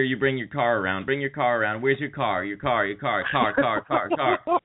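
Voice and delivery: lightly mimicked chorus of store staff; mock nagging staff. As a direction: keep hammering the word like a stuck record. Mimics staff all asking about car.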